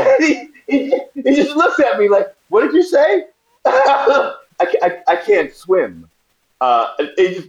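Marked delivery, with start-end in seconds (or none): 0.0-3.6 high voice broken by laughter; laughing while telling. Real, not acted. Actor retelling the producer's reaction while laughing. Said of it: "laughing through retelling". 3.6-6.1 slow, stammered admission; sheepish repeat. Retold or imitated. Actor repeating to the producer that he can't swim, slow. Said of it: "repeating the confession".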